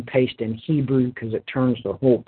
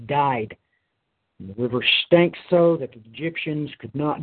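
measured, solemn Bible reading with weighty pauses; scripture reading. Acted. Preacher reading Exodus to his congregation, solemn and measured.

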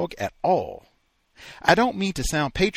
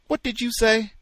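sharp, high disbelief; startled question; 11 semitones higher, 5 dB louder than usual. Acted. Wife reacting to his remark, high and startled. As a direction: jump at what you heard.

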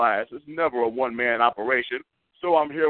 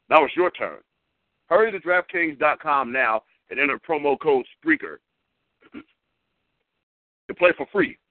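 upbeat hyped-up sponsor read; radio ad read. Acted. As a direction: sell it like a radio commercial. Host reads sponsor ad.

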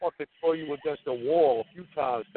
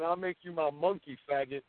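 quiet taunt; 6 dB quieter than usual. Real, not acted. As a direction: say the taunt softly, letting it drop off. Repeats the taunt when challenged.

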